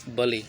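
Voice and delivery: "बले" said ba-lay, no final t; silent t. Shown as a demonstration. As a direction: end "बले" on the open vowel. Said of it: "लेकिन टी silent होता है".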